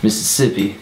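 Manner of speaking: put-on Southern accent. Friend demonstrates her accent in the battle, Southern accent. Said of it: "Southern accent".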